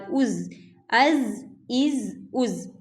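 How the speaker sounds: از said slowly, the ز drawn out. Shown as a demonstration. Teacher slowly modelling the ز sound for students. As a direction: stretch the ز in از slowly. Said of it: "یہ زال جو ہے".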